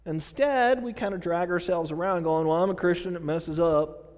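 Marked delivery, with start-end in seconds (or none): 2.5-4.1 a slight Southern twang slipping out; lightly Southern-accented grumble. Acted. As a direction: let a little Southern creep in. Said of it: "Sorry, that Southern came out of me".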